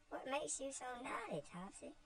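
put-on a small girl pleading gently; tearful little Eva. Eva asks Topsy, high child's voice near tears. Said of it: "with tears in her eyes".

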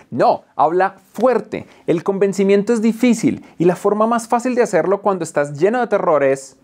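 usual speaking voice

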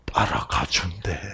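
hushed whispered aside; secretive whispered aside. Real, not acted.

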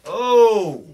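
loud, high burst of delight; light up at the mention of the beach; excited oh. Acted. Character thrilled when asked about the beach, a loud high oh.

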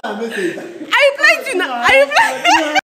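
words bubbling through giggles; laughing. Real, not acted. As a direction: ask it while cracking up. Giggling while asking a child.

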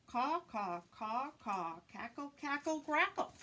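cawing like a crow; playful crow calls; crow caws. Acted. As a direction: caw it out loud like crows.

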